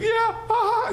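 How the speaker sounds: high, giggling imitation of a laughing friend; imitating the guide's amused laugh at the burial; laughing quote. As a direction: laugh it out as if it were hilarious. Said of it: "he thought it was hysterical".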